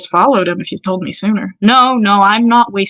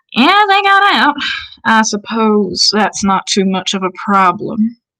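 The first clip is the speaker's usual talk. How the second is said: slow southern gentleman's drawl. Voicing a southern gentleman speaking into a communicator, with a southern drawl. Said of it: "give him a bit of a southern drawl".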